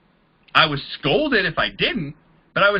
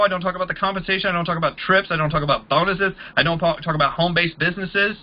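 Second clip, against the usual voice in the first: ordinary talk, nothing marked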